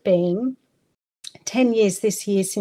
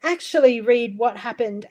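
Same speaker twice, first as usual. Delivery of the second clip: relieved inner voice; 4 semitones higher than usual. Retold or imitated. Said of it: "a part of me going".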